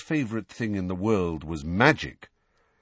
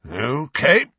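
forced calm; 7 semitones higher, 6 dB louder than usual. A narrator's reading. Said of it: "in a voice of forced calm".

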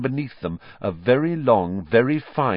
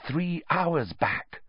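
whisper; 8 semitones higher, 5 dB quieter, much slower than usual. A narrator's reading. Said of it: "Hermione whispered".

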